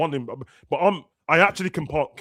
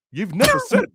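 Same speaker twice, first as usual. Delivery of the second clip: high laughing jab; laughing mockery; 4 dB louder than usual. Mocking Konate fans, high laughing jab. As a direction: squeal it through a laugh.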